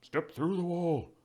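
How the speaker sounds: high, drawn-out call; Icky Macer. Acted. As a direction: shout instructions to someone beyond a wall. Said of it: "you can hear Icky Macer yelling".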